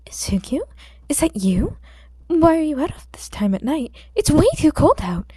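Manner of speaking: concerned landlady. Acted. Concerned owner voiced.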